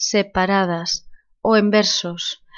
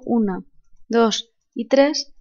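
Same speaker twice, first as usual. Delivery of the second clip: slow, spaced count with "tres" rising; counting syllables; slower than usual. Shown as a demonstration. Teacher counting syllables in the last verse slowly. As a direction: tick off each syllable deliberately. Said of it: "lo mismo sucedería en el último verso".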